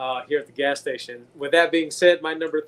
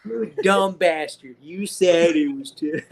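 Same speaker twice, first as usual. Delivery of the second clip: slow, scornful movie quote; mock insult; slower than usual. Joking about the movie scene, slow scornful quote. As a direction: drag out the insult like the character.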